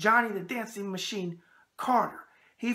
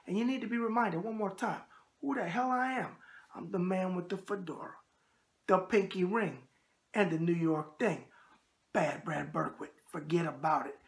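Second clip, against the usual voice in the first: host sign-in; 4 dB quieter than usual. Acted. Signature host intro.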